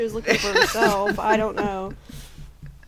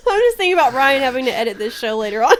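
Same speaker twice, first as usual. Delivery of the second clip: laughing; 6 semitones higher, 4 dB louder, faster than usual. Real, not acted. Laughing at own story.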